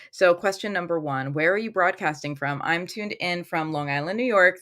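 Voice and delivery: normal talking voice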